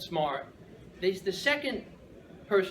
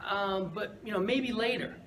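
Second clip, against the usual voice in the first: gentle no; 4 semitones higher than usual. Retold or imitated. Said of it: "So I tell him".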